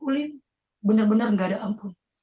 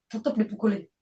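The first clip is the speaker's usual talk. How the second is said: ordinary talk, nothing marked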